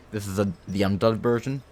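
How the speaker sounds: talking with a mouth full of food. Real, not acted. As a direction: speak through a bite of food. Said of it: "I shouldn't speak with my mouth full".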